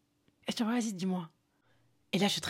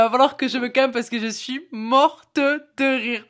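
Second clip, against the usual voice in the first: settling after laughter; slower than usual. Real, not acted. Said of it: "il faut que je me calme".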